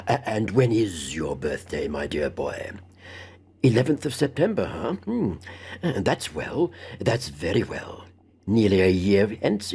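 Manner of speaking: lightly voiced fussy old man with a chuckle; mildly sinister kindly host; old gentleman pressing. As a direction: probe him genially, laughing at the book. Abney questions Stephen's birthday.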